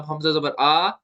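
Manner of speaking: हमजा जबर आ with a long-held आ; stretched vowel. Shown as a demonstration. Teacher showing what not to read, आ stretched. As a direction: drag out the आ at the end. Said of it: "बगैर खींचे पढ़ना है".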